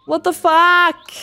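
loud, high, slow exasperated swear; frustrated outburst. Real, not acted. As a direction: blurt it out in real frustration. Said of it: "I'm so mad".

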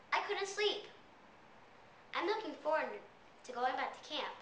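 animated, emphatic audition storytelling; rehearsed monologue. Acted. Child auditioning with a summer camp story, animated rehearsed monologue. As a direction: recite it in separate phrases with swooping emphasis. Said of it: "I have a commercial".

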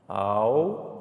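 "Algo" split in two, al, go; sílaba por sílaba. Shown as a demonstration. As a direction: say "Algo" as two separated syllables. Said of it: "Você fala ela devagar, sílaba por sílaba". ("Algo" separado, sílaba por sílaba)

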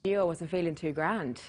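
put-on low Irish-accented punchline. Patient delivering the joke's punchline, Irish accent. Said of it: "an Irish accent".

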